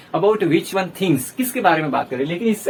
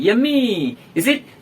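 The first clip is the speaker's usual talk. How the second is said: delighted over food; 2 semitones higher, much slower than usual. Shown as a demonstration. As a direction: relish the tasty dish. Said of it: "tasty हम dish खा रहे हैं तो बोलते हैं". (स्वाद की खुशी में "Yummy")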